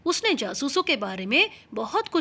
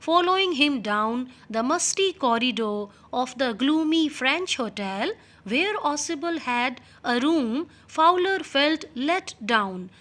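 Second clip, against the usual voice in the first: reading the English text slowly and clearly; much slower than usual. Shown as a demonstration. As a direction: read each word out slowly for the class. Teacher reads English text aloud. (धीमी आवाज़ में पाठ पढ़ना)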